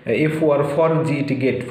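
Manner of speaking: "for" and "গেট" as two separately spelt syllables. Shown as a demonstration. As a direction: spell F-O-R "for", then G-E-T "গেট", drawn out. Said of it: "syllable ভাগ করে". ("for" আর "গেট" আলাদা সিলেবলে বানান করে, টেনে বলা)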